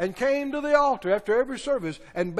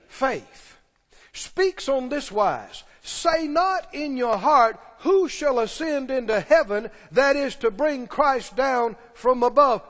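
scripture reading; slower than usual. Acted.

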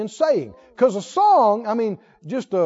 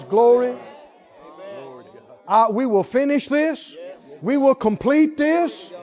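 confident declaration; 4 dB louder than usual. Acted. Positive confession set against negative.

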